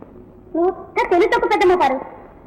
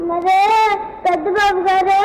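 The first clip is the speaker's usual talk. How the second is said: tearful telling; 3 semitones lower than usual. Acted. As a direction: tell on someone through tears. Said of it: "ఎందుకు ఏడుస్తున్నావు". (ఏడుపు గొంతుతో ఫిర్యాదు)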